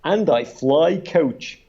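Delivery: drawn out, laughing punchline; slow laughing punchline. Retold or imitated. Brokaw's kicker about flying coach, slow and laughing. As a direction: land the kicker slowly through a laugh. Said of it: "his kicker was".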